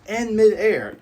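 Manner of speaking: sudden high shout; yelled. Retold or imitated. Buggy yelling at Luffy in midair, loud shout. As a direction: yell it out mid-leap. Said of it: "And he yells".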